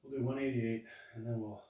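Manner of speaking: panting between words after a heavy set; winded, catching breath mid-sentence. Real, not acted. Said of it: "sorry, I gotta get my breath".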